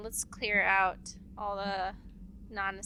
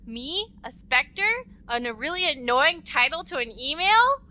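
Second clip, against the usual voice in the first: surprised; 4 semitones higher, 5 dB louder than usual. Real, not acted. Mock shock at the email title.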